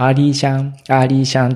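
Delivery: lightly imitated little boy's sing-out; faltering toddler. Little boy singing as he walks with his mother, faltering toddler talk. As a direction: imitate a toddler's not-quite-formed words. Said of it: "まだたどたどしい".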